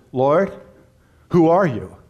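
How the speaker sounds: pleading, rising astonished question; Paul asking the Lord. Retold or imitated. Paul on the road to Damascus, asking Jesus in urgent disbelief. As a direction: ask as if struck down on the road. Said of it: "he says".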